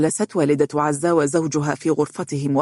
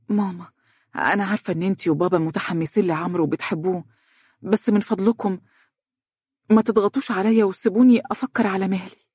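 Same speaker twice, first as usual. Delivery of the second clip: pleading; 4 semitones higher, faster than usual. Acted. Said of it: "وقالت برجاء".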